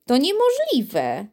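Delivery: slow, sad disbelief. A narrator's reading. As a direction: say it sadly, shaking your head. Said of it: "smutnie pokręcił głową prezydent".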